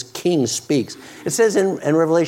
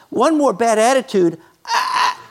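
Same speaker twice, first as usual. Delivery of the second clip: exasperated laugh; 5 semitones higher than usual. Retold or imitated. Parent exasperated with child.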